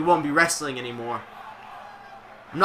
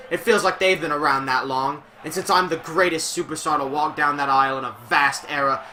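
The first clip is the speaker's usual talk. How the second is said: mock wrestling promo. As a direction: proclaim it like a wrestler on the mic. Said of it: "that was a real Drew promo".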